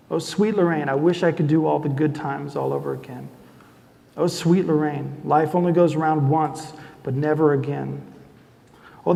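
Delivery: tender, measured lyric reading. Acted. Reading his wife's love song to the audience, tender and measured. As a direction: read the words like a love poem.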